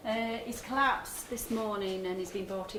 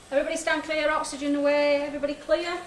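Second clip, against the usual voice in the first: loud, higher safety call; 5 semitones higher, 4 dB louder than usual. Acted. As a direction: call it out clearly to the room. Safety call before defibrillator shock.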